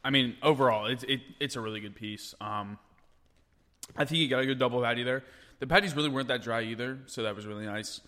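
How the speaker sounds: talking through a mouthful of burger; words round a big bite; wolfing down food. Real, not acted. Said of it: "I can't talk while I eat".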